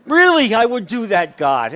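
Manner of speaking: hammed-up prayer, starting high and dropping on God; imitated pleading prayer. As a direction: act out someone earnestly promising God. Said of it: "there are people praying like this".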